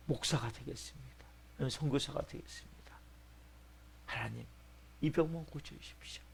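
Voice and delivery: hushed, low plea to God; subdued acted prayer of a patient; bargaining prayer. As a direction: pray softly, striking a humble bargain. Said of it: "하나님과 이제 타협을 하는".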